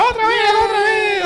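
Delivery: high squealing Teletubby. Retold or imitated. The Teletubby begs the camera to play again. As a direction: shriek it like a delighted toddler. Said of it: "Y otra".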